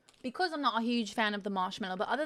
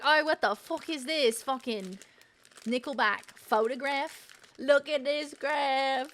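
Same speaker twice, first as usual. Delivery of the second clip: mock viewer; 4 semitones higher, 4 dB louder than usual. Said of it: "Be like".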